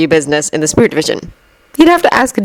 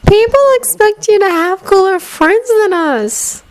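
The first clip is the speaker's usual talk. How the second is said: blunt Luna; slower than usual. A narrator's reading. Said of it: "embarrassingly honest".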